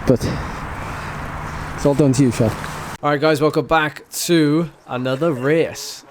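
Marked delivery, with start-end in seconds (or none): 0.1-2.5 loud, excited shout out. Real, not acted. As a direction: call it out loud and proud. Shout out to the MVP.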